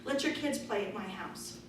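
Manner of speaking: ordinary talk, nothing marked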